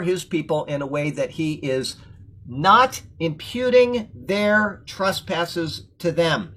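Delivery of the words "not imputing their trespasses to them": slow, weighty emphasis. Shown as a demonstration. Bible teacher stressing a key verse to viewers, slow and weighty. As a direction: read "not imputing their trespasses to them" slowly, landing on "not". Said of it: "Important words there".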